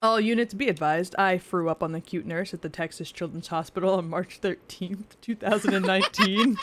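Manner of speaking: police radio announcement voice; like a dispatcher on a radio; over a radio. Pretend. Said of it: "the radio voice working".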